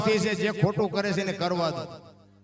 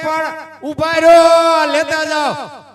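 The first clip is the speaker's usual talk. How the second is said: loud slow call; 6 semitones higher, 11 dB louder, slower than usual. Acted. Man yells after guests.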